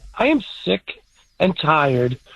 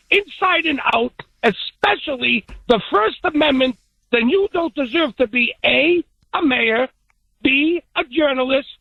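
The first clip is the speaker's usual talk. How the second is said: higher, building indignant rant; rising rant; 6 semitones higher than usual. Real, not acted. Caller venting at politicians, building indignant rant. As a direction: pile it on, climbing in pitch.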